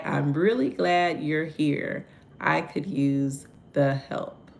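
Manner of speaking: slow, sincere and soft. Shown as a demonstration. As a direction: say it gently, meaning it.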